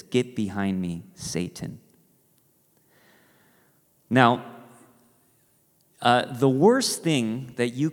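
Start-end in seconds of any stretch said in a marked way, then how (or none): 0.0-1.8 stern rebuke. Retold or imitated. Jesus rebuking Peter.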